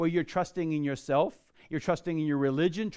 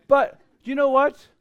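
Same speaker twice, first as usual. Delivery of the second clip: preaching with force; 6 semitones higher, 5 dB louder than usual. Real, not acted. Pastor stressing salvation over heritage.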